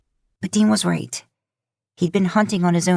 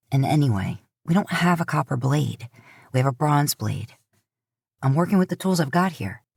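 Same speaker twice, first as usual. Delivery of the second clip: lightly lowered gruff Dean voice, defensive; 2 semitones lower than usual. Acted. Older brother defending his bronze blade, mildly defensive. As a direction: brush off the critique, a bit annoyed.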